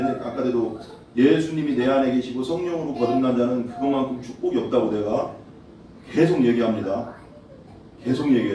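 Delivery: ordinary talk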